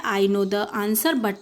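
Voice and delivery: drawn out word by word; slow sentence reading. Shown as a demonstration. Teacher reading the know and no example, very slow. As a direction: dictate it slowly to the class. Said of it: "पहले ये sentence पढ़ते हैं".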